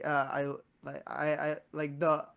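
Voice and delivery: tripping over words; stammering, can't get words out; stuttering. Real, not acted. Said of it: "I'm, like, stuttering now".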